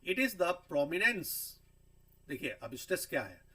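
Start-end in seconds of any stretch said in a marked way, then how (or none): 0.1-1.3 drawn out, each word separated; teacher stretching a definition; slow and deliberate. Shown as a demonstration. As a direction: spell it out slowly for the class. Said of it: "फिर है stress".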